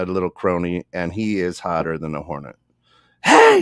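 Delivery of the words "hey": loud, high-pitched imitation yell; retold yell. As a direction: yell it as the angry man charging over. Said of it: "he's yelling at me".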